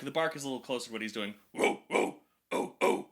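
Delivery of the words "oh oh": short airy barked oh. Shown as a demonstration. Coach demoing the bark for students, airy barks. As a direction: bark two breathy oh sounds. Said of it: "let's do the bark".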